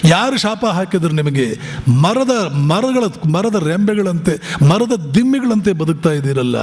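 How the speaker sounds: as Vivekananda, scold the nation with anguish; impassioned rebuke. Retold or imitated. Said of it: "ಅಂತಾರೆ". (ಆವೇಶದ ಗದರಿಕೆ)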